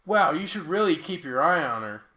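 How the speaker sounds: loud, mock-obvious warning; no shit Sherlock. Taxi driver stating the obvious too late, mock-earnest. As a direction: deliver it as a belated, pointless tip. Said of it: "no shit Sherlock".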